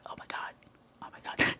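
hushed awed whisper. Retold or imitated. Imitating the brother whispering in awe at lights. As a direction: barely voice it. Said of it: "he'd probably be really quiet".

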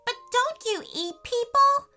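startled. A narrator's reading. Boy questions a wolf on the floor, startled. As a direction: pitch it way up, incredulous.

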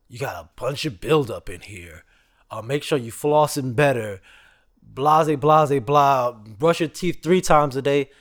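imitating the nagging hygienist; mock hygienist. Mimicking the hygienist lecturing him about flossing.

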